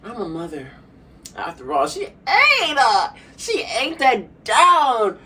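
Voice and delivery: high, slow drawn-out diva quote, laughing through; imitating Keke Palmer. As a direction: ham up a proud diva line. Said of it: "Keke Palmer was like".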